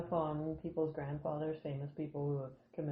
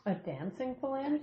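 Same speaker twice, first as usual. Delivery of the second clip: drawn-out question; 8 semitones higher, slower than usual. Pretend. Friends joke reference.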